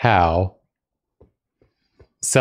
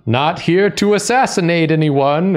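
fake Blythe voice; 8 semitones higher than usual. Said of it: "was like".

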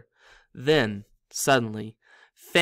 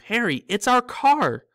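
loud, higher, slow joyful cry; voice breaking with relief; 9 semitones higher, 7 dB louder than usual. Acted. Ron to Harry in the forest, relieved shout. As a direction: shout the good news, relieved. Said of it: "his voice breaking with relief".

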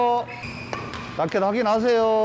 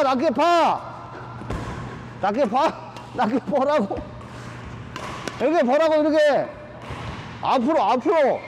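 harsh barking commands; 5 semitones higher than usual. Real, not acted. Badminton coach drilling players.

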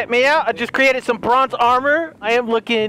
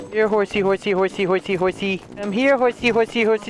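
coaxing call. Real, not acted. Calling to a wild horse.

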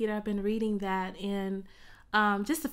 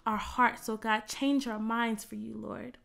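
rising and falling prayer, hushed at each God; fervent prayer. Real, not acted. Worship leader praying over music.

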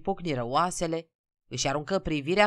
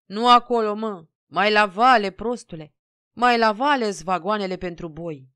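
loud, higher bursts of scornful shouting; 4 semitones higher, 8 dB louder than usual. A narrator's reading. Conductor sending peasants down the platform, shouting. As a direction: holler directions as if at fools. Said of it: "Conductorul striga".

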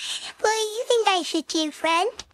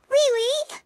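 surprised; 5 semitones higher than usual. Real, not acted. Shocked that Will is mean.

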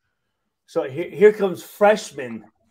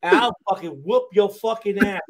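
retold threat; 3 semitones higher, 6 dB louder than usual. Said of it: "I said".

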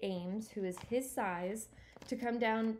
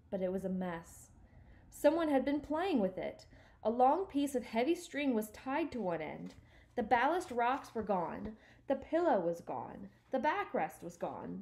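measured read-aloud storytelling; story narration; 4 dB louder than usual. A narrator's reading. Reader telling listeners of Stuart's lost canoe, measured narration. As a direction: read it like a chapter book.

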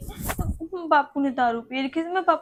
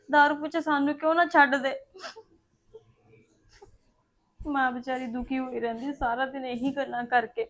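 tearful lament; 2 semitones lower than usual. Acted. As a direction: grieve aloud through light tears. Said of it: "ਰੋਈ ਜਾਂਦੀ ਆ".

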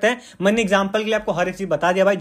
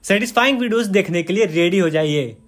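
voiceover intro read. Shown as a demonstration. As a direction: say it as a video intro to the viewers. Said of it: "वो इस प्रकार से बोल सकते हैं". (Video intro की तरह थोड़ा ज़ोर से घोषणा)

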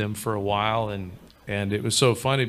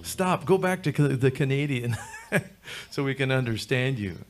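higher, pleading mock Quebecois with a laugh; imitating the Quebecois; 5 semitones higher than usual. Retelling Quebecois begging him to switch back, higher and laughing. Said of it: "And they're like".

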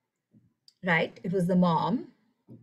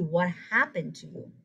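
caring mindset; 2 semitones lower than usual. Shown as a demonstration. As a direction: ask with concern.

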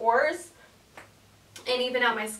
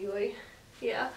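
normal talking voice

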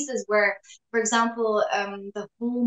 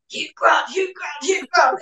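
louder, a hint of a British film-star imitation; lightly put-on British accent, pushed louder; channelling Hugh Grant; 4 semitones higher, 5 dB louder than usual. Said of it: "when I was auditioning for it, I thought".

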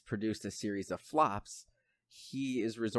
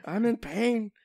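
much higher and louder mock wail; hysterical shriek; 12 semitones higher, 5 dB louder than usual. Retelling the slap scene, high loud mock hysterical wail. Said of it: "he's like".

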